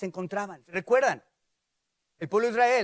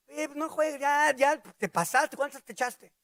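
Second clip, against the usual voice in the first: teasing, incredulous needling; mock accusation; 5 semitones higher than usual. Friend interrupts someone praying, teasing accusation. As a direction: needle them as if they were drunk.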